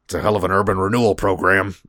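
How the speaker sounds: quick offhand mock mutter; imitated muttering. American general quipping at footage of destruction, lightly imitated mutter. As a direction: toss it off like a muttered quip. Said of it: "he mutters to himself".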